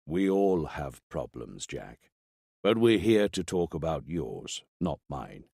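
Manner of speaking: low, slow, calm doctor; a doctor speaking low on tape. Acted. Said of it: "Rinaldi's voice sounded a lot deeper on tape".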